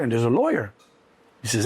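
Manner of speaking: normal talking voice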